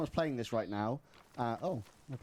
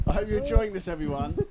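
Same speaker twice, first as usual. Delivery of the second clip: mock ASMR; 6 semitones higher, 6 dB louder than usual. Shown as a demonstration. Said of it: "This is the weirdest A S M R".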